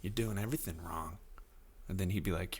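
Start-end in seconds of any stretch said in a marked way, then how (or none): 0.0-1.2 soft, whispered mock heckle; hushed smug heckling; heckling scientist. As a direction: hiss it at the scientist like a know-it-all. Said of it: "and I'm like".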